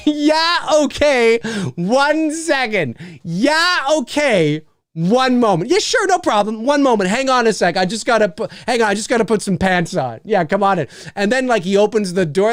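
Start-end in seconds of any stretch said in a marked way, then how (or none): 0.1-10.9 much higher, bubbly host; eager high voice. Pretend. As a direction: gush it out, overly welcoming. Homeowner eagerly agreeing.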